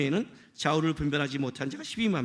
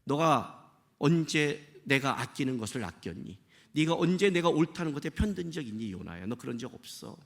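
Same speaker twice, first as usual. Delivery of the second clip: God questioning; 3 semitones lower, 3 dB quieter than usual. Retold or imitated. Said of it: "하나님이 이렇게 물은 건요".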